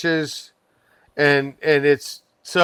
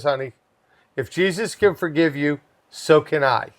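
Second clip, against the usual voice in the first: gentle reassurance; 4 semitones lower, 4 dB quieter than usual. Retold or imitated. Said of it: "she goes".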